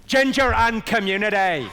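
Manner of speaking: hammed-up Belfast catchphrase; Belfast accent. Shown as a demonstration. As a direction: stretch it out in comic Belfast. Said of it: "the phrase I use to get the Belfast accent right".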